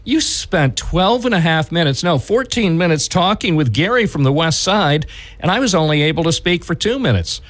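lightly acted indignant caller; huffy caller. Host imitating callers who grumble about short airtime, huffy. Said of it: "they get huffy and say".

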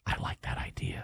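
breathy, unvoiced whisper. Shown as a demonstration. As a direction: whisper it like a secret. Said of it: "Whisper me".

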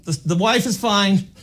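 high, soft, slowed neighbor voice; whisper-gossip like a nosy neighbor. Retold or imitated. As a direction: neighbor couple peeking out, high and hushed. Imitating neighbors watching him.

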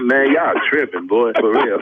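laughing. Real, not acted. Caught by prank, laughing.

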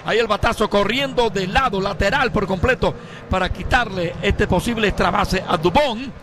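excited radio play-by-play. Real, not acted. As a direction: call the fly ball to the wall.

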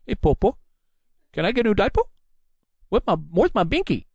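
put-on high, babyish whine asking grandpa for a diaper; mock a little kid begging his popo; whiny baby voice. Mocking the candidate as a baby, high childish whine. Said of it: "sitting on the porch with your popo".

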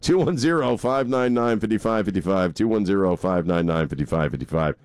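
announcer reading the number; radio announcer. Acted. Station phone number read.

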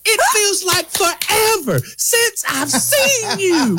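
high, slow, laughing mock reunion; mock tearful reunion. Speaker to stranger in line, hammed-up tearful reunion. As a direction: gush like a long-lost parent. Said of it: "I'm saying".

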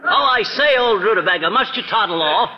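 lightly hammed British toff accent; a touch of British toff seeing off a guest; mock British accent. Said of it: "how awful you sound".

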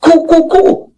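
high, lightly voiced young woman; a hint of a nervous young woman; imitating young lady. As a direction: mimic her worried calling back. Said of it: "she's turning back".

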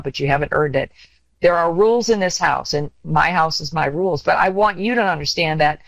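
encouraging parent. Retold or imitated. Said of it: "build them up and say".

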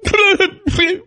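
mock sobbing squeal, very high; high crying wail. Shown as a demonstration. Dad demos his crying noise, a high wailing squeal. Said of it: "the noise I make when I cry".

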